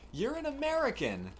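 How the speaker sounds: friend's quote. Retold or imitated. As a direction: ask it as an amazed, baffled question. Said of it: "one of his friends was like".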